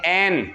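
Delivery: ऐन said flat as everyday "ain"; wrong ऐन. Shown as a demonstration. Teacher imitates how Urdu speakers say it, flat ऐन. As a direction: mimic the common ऐन. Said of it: "ये ऐन नहीं है".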